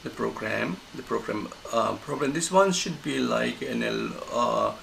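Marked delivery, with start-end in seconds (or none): 0.0-2.3 "program" held with a small rise; sustained on program. Shown as a demonstration. Teacher showing students the sustained intonation. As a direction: keep "program" level and unfinished. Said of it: "sustained intonation because program".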